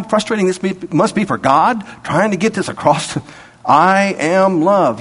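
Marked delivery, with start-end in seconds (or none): 3.6-5.0 a slow, firm God, lightly voiced; God speaking slowly. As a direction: let God say it patiently and slowly.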